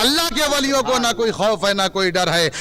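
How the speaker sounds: measured preaching to a gathering; sermon conclusion. Real, not acted. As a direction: wind the sermon down with solemn conviction.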